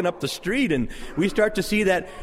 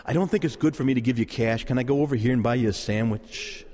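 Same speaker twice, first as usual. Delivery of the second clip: lower, considerate voice; gentle offer; 5 semitones lower than usual. Acted. Passer-by offering a beggar food instead of cash, gentle and considerate. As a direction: offer help kindly in a low, easy voice. Models a kind answer to beggar.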